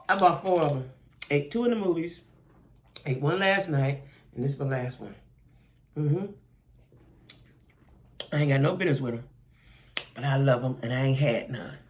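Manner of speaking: talking with mouth full; chewing while talking. Real, not acted. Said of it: "excuse me while I eat it".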